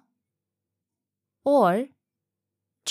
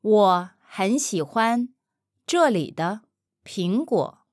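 slow chunked model. Shown as a demonstration. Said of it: "slow chunked model take".

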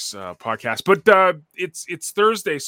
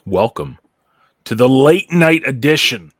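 booming circus ringmaster announcement; 9 dB louder than usual. Pretend. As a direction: bellow it like a ringmaster under the big top. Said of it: "ringmaster-style opening announcement".

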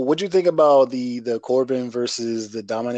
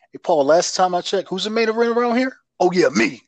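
higher, smug mock brag; cocky Roman impression; 6 semitones higher than usual. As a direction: boast like you own the place. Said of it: "really cocky with it".

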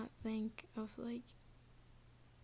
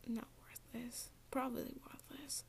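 softer aside; 7 dB quieter than usual. Real, not acted. Self-correcting aside.

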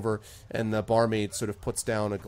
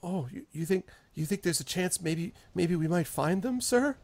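higher, eager, grateful farmer; hopeful farmer; 6 semitones higher than usual. Acted. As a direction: rush the thanks in new hope. Farmer gains hope.

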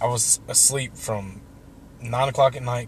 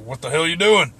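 louder, higher retold challenge; challenging beefy lady; 5 semitones higher, 7 dB louder than usual. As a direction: imitate a woman confronting him. Imitating beefy lady challenging him.

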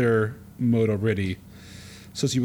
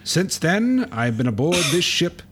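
1920s pugilist voice. Acted. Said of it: "Fox's father is a pugilist from the nineteen twenties".

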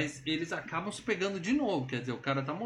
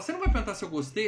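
put-on quick high girl; 6 semitones higher, 4 dB louder, faster than usual. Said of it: "ela fala".

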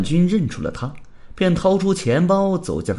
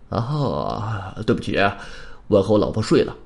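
lower-pitched, sleepy yawned apology; yawning; 6 semitones lower than usual. Acted. Heida sending the stranger away, yawning sleepily. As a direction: talk through a put-on yawn. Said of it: "黑达打了个哈欠".

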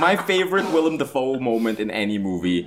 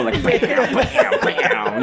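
gunshot sounds; 13 semitones higher, much slower than usual. Retold or imitated. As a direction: mimic wild gunfire with the voice. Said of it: "acting it out like a crazy person".

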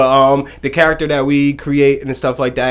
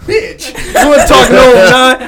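excited; 11 semitones higher, 8 dB louder, slower than usual. Real, not acted. Teased, answers playfully.

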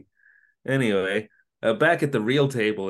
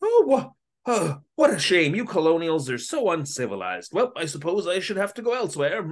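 put-on blustery English accent; 6 semitones higher than usual. Host mocking the villain leaving the restaurant, in a blustery English accent. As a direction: puff up like a pompous English gent. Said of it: "blustery English accent".

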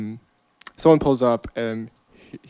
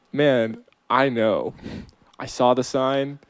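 unenthusiastic. Acted. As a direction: say it like you couldn't care less. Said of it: "very unenthusiastic Terry".

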